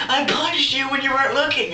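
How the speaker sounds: high, loud blubbering imitation; mock crying. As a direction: wail it out like a crybaby. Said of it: "he's crying".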